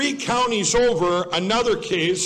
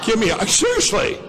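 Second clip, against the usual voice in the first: amused exasperated outburst; laughing protest; 4 semitones higher than usual. Real, not acted.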